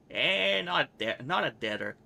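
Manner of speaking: put-on sharp, dismissive young thief; lightly voiced Anna. Anna brushing off Farrod's request, lightly voiced.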